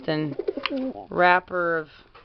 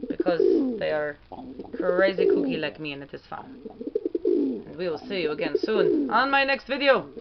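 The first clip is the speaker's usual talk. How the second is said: Petrie's voice. Pretend. The pigeon Pete telling viewers to subscribe, in a lightly voiced made-up accent. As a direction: cheerfully sign off the video as the pigeon in an invented accent. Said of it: "But it is Petrie's voice".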